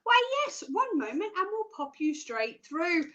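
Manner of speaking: lightly voiced switchboard receptionist; obliging receptionist. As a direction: act out a receptionist connecting a call. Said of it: "And they'll go".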